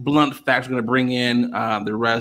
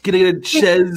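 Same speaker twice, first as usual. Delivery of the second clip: put-on higher-pitched clumsy Borat accent; bad Borat accent; 4 semitones higher, slower than usual. Ordering from a menu in Paris, bad Borat accent. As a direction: struggle through it in a terrible Borat accent. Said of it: "the worst Borat accent".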